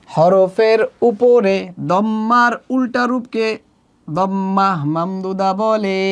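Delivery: measured classroom chant, drawn-out phrase endings; slow, sing-song teaching recital; slow recitation. Shown as a demonstration. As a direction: recite the rule slowly for repetition. Definition chanted slowly for learners.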